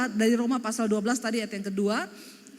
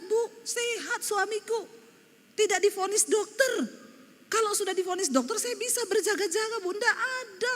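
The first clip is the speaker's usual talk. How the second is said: raised, lighter voice for the widow; high retelling voice; 8 semitones higher than usual. Retold or imitated. Preacher retelling the widow's words, in a high voice. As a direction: lift the voice high to play the grieving wife.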